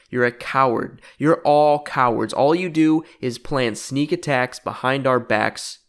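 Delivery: slow, deliberate mock promo with punched words; fed-up challenge. Cody calls out cowardly Jericho, fed-up slow challenge. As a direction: call out a coward, drawing out the words.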